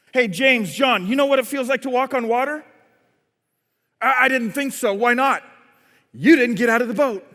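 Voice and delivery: lightly indignant challenge; fed up. Acted. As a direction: take them on one by one, a touch irked. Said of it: "gets fed up and he goes".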